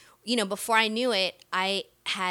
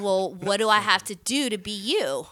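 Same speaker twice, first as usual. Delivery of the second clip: eager retold question; 5 dB louder than usual. Acting out her eager question.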